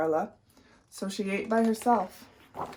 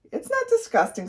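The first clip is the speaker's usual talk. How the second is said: indignant; 14 semitones higher than usual. A narrator's reading. Carla defending her sandwich.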